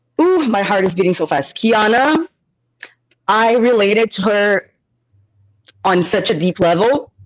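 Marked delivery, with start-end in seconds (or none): 1.6-7.1 slow, choked-up voice catching with emotion. On a podcast, a speaker gets emotional talking about someone, choking up. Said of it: "I'm choking up".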